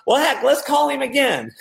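high, undaunted mock enthusiasm; chirpy retold excitement; always excited friend. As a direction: imitate an eager pal who won't be put off. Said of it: "he's just always excited".

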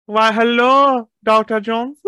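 high, slow, loud sly villain greeting. Retold or imitated. Nazi villain Vogel greeting Doctor Jones, loud and slow. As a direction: drawl the hello loud and high. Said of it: "And he goes".

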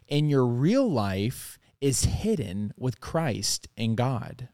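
slow, solemn Bible reading; scripture reading. Acted. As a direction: read it reverently and slowly. Reads scripture aloud.

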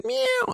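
very high mock meow; cat meow. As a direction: squeak it like a cat. Cat comes in.

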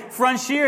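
"Frontier" said as "frun-SHEER"; mispronounced frontier. Retold or imitated. Pastor quoting his own old mistake, mispronounced frontier. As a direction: say "Frontier" with sh in place of t. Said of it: "this homeboy was saying".

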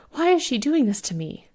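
high, airy plaintive complaint; distressed lament. A narrator's reading. Inn owner laments the ghost's attack, distressed. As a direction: plead it in smoky distress.

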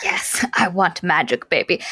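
breathy conspiratorial whisper; mock whisper. Friend joking about the couple's wish, in a whisper. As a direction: whisper it like a silly secret. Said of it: "And he's like".

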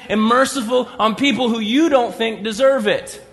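really, are you serious?; incredulous scolding. Real, not acted. Preacher scolds Jonah incredulously.

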